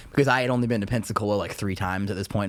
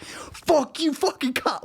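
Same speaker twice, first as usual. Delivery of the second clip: mock angry cursing; slower than usual. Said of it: "Like, so mad".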